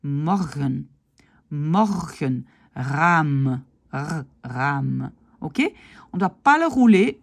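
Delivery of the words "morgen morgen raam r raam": morgen and raam with a gentle throaty r; isolated words, softened back-of-throat r in raam; light throat r. Shown as a demonstration. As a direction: demonstrate a weak uvular r in morgen, raam. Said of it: "on ne le fait pas aussi fort".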